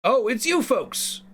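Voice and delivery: a hint of an Irish goblin leader, pleased; Irish accent. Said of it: "I'm bad at Irish accents".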